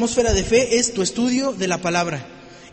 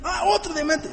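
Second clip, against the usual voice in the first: mock easy finder; 5 semitones higher, 3 dB quieter than usual.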